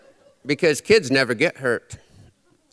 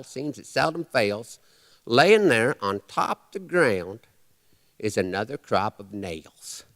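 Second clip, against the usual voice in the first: cowboy poetry. Acted. Recites his cowboy poem.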